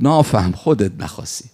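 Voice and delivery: put-on repeated Khorasani-accented rebuke, loud on the first word; retold rebuke in Mashhadi accent; thick Mashhadi accent. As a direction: imitate a Mashhadi scolding, easing off at the end. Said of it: "با همون لهجهٔ غلیظ مشهدی و خراسانی".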